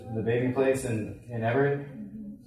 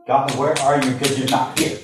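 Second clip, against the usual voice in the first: louder, pleading outcry; crying out to God; 5 dB louder than usual. Retold or imitated. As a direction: cry out as if God is absent. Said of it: "That's what I was crying out inside".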